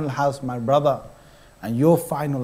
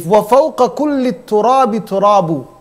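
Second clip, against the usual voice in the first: recited Arabic verse; 4 semitones higher, much faster than usual. Acted. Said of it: "One poet said".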